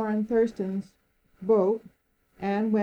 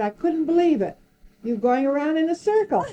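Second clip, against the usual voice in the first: amazed disbelief; 6 semitones higher, 4 dB louder, faster than usual. Retold or imitated. Amazed official retelling her circling.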